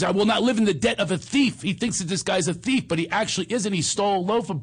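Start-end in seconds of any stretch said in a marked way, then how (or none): 0.0-1.6 higher, earnest movie line; quoting the character again. Retold or imitated. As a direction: replay the vow with feeling. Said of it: "That's what he says".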